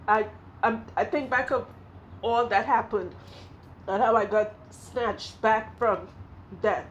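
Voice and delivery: halting, emotional recollection; slow down and pause as the memory catches you. Real, not acted. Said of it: "forgive me if I'm emotional".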